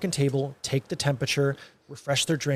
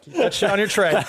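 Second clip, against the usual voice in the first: insistent; 6 semitones higher, 4 dB louder than usual. Real, not acted.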